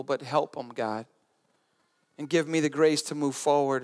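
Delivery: low, subdued prayer; sincere prayer. Shown as a demonstration. Models a sincere forgiving prayer.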